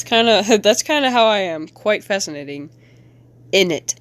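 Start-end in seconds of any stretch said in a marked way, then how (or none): 1.7-3.9 put-on a lightly done British accent; a faint attempt at a British accent. Artist trying a British accent on her comic, lightly. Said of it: "Says in a British".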